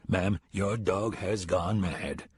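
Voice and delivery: slow and steady, every word set down; firm. Acted. Mar tells Lenora firmly her dog has gone mad. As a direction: state it firmly, holding back temper. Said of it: "Mar said firmly".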